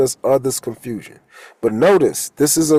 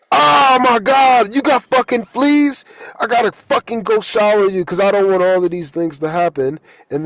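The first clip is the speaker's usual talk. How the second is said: exasperated owner. Acted. Acted quote, disgusted at dog fleas.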